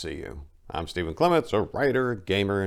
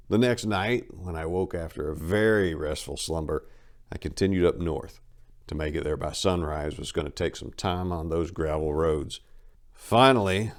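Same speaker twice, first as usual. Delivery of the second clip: steady dramatic reading of a road memoir; first-person travel tale, told straight; story narration. A narrator's reading. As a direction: read it like a storyteller at the bar.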